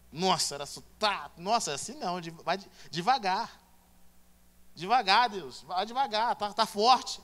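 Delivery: hammed-up gasping plea, Deus vai devagar; overwhelmed cry. Acted reaction to Proverbs cutting. (clamor exagerado e alto)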